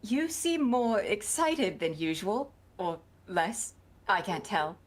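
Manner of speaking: slow, precise, careful diction; carefully enunciated. Acted. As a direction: speak each word crisply. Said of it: "enunciate each word you speak very clearly and carefully".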